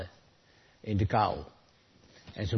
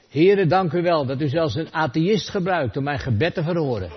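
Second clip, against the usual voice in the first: grateful laughing prayer; 5 semitones higher, 6 dB louder than usual. Retold or imitated. Hungry man's grateful prayer.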